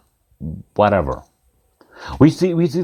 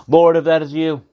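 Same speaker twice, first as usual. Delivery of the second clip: mildly raised, higher-pitched call; 4 semitones higher than usual. Acted. Peter calls out to the Lord, mildly raised call. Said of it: "calls out".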